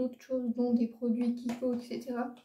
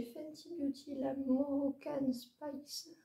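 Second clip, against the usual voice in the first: Moroccan Spice in a French accent, drawn out; French-accented English; 5 dB quieter, much slower than usual. Real, not acted. Vlogger naming an English palette, French-accented English. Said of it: "Désolée pour mon accent, il est vraiment horrible".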